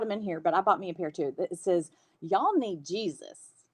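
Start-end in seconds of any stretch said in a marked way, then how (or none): 2.2-3.7 slow, drawn-out sarcastic "Y'all need Jesus"; sarcastic Southern. Shown as a demonstration. Quoting the socks' slogan, sarcastic and Southern. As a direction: draw it out with mock Southern judgment. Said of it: "real sarcastic and Southern".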